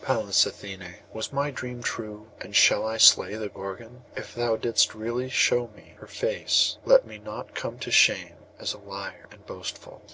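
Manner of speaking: bitter prayer. A narrator's reading. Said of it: "prayed in the bitterness of his soul".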